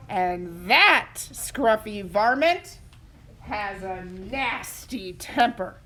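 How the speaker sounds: slow, ominous parent warning; slow it down, make it spooky. Acted. Parents warning Buddy about the varmint, ominous. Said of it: "his parents warned him".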